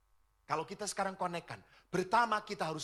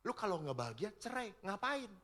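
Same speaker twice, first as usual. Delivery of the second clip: careless counselor; 2 semitones higher, 5 dB quieter than usual. Retold or imitated. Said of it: "Konselornya akan berkata apa?".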